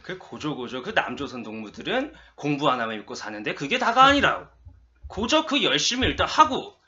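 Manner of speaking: mock North Korean dialect speech; lightly done North Korean propaganda tone; North Korean accent. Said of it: "하고 싶은 한마디를 이렇게 북한 사투리로".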